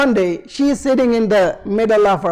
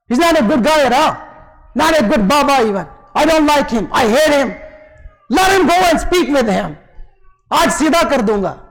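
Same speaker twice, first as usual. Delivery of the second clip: raised, indignant retelling; angry son; 3 semitones higher than usual. Retold or imitated. Second son says he hates his bad father, angry. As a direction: play a son turning against his father.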